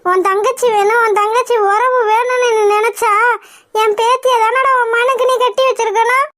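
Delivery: acted crying reproach; tearful accusation. Mother tells son he failed his sister, tearful accusation. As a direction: accuse him with a mild wail. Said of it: "உட்காந்து அழுதுட்டே இருக்க".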